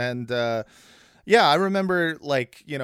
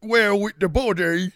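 Russell Brand impression; 9 semitones higher, 4 dB louder than usual. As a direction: ham up a Russell Brand ramble, pitched way up. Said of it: "that's how he talks".

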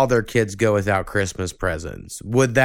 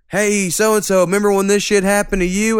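quoting a commenter; 9 semitones higher, 3 dB louder than usual. Retold or imitated. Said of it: "someone's like".

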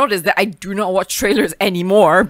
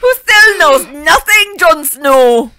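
put-on Scottish accent; 7 semitones higher, 8 dB louder, much slower than usual. Joining Scottish voice bit.

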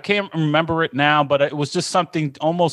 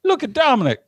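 a friend's teasing yell; mocking yell; 13 semitones higher, faster than usual. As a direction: call him out across the room. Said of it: "he yells and he's like".

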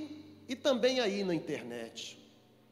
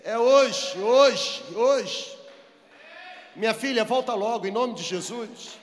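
loud, punched repeated exclamations; urgent preaching; 4 dB louder than usual. Real, not acted. Preacher urges the backslider to return today, forcefully. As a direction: hammer each word at full force.

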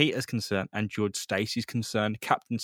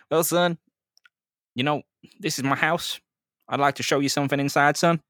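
Captain Stacy; 3 semitones higher, 3 dB louder than usual. Acted. Captain Stacy voiced in retelling.

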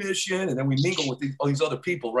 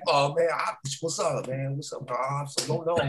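nervous mumble; 7 semitones lower, 7 dB quieter than usual. Retold or imitated.

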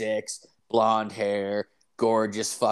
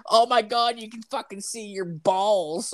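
high, shrieking mock girls; 10 semitones higher than usual. Imitating the girls at work gasping over his ripped pants. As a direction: squeal it high like giggling coworkers.

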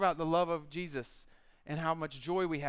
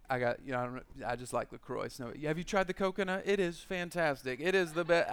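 fake enthusiasm; 4 semitones lower than usual. Faking love for LaCroix.

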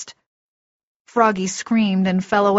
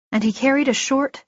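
plain reading voice

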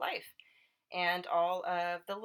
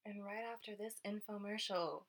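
announcer voice; 2 semitones higher than usual. Pretend.

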